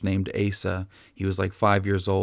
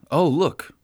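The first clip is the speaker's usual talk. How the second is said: mock scolding. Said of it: "Jesus doesn't say".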